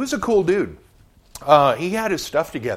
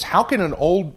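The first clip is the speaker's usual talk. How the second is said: higher, louder narrated exclamation; exclaiming; 6 semitones higher, 5 dB louder than usual. A narrator's reading. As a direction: lift pitch and volume on the question. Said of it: "exclaimed Nicodemus".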